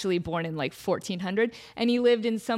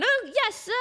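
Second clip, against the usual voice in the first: meek intern; 11 semitones higher than usual. Acted. Intern scurries off.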